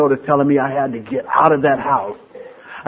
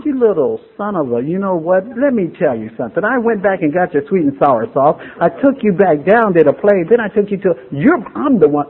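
mock inner fury; 5 semitones higher than usual. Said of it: "I didn't say this out loud, but I'm thinking".

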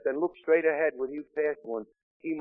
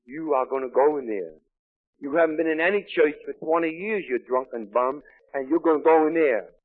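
louder, emphatic retold scolding; scolding order; 4 dB louder than usual. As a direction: lay down the law to a drunk husband. Wife ordering her husband into church.

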